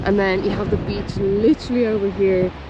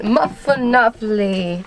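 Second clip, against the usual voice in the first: mock Italian accent; slower than usual. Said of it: "a bit of Italian mix with a bit of probably Gaul".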